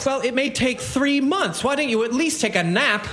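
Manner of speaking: snippy, sarcastic retort. Acted. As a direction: brush the complaint off testily. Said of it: "have to get snippy".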